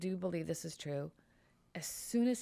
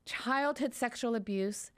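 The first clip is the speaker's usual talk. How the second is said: indignant outburst; 2 semitones higher than usual. Retold or imitated. Voicing the doctor's feelings to the lawyer, indignant. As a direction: play the doctor's anger at the stupid question. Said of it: "I'll, I'll do this part".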